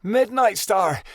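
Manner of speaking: high, slow delighted call; joyful cry. A narrator's reading. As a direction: cry out her name with glee. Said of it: "Snapfoot gave a joyful cry".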